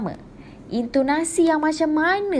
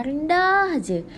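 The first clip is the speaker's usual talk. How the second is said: gentle voice; 4 semitones higher, slower than usual. Shown as a demonstration. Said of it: "orang bercakap dengan suara yang".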